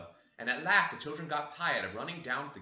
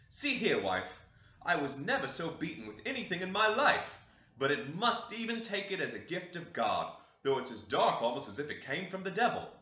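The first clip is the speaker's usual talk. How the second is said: a hint of the tired farmer showing his wife a strange gift; half-grumbling, half-wondering to his wife; worn-out husband unwraps his coat for his wife, mildly voiced; lightly voiced old master; 4 semitones higher than usual. Master shows bundle to wife.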